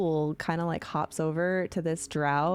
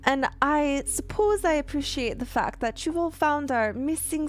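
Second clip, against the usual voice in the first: higher, prim dwarf voice; Eldeth voice; 5 semitones higher than usual. Acted. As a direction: speak up primly, a touch higher. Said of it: "You hear Eldeth".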